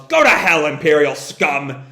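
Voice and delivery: acted curse at an enemy; angry yell. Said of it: "Ibaraki yells".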